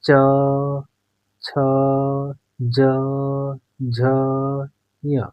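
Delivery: च, छ, ज, झ, ञ said one at a time with pauses; spelling out consonants. Shown as a demonstration. Teacher demonstrating palatal consonants one by one. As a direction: sound out च छ ज झ ञ slowly, tongue on the palate. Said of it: "तो बोल कर देखिए".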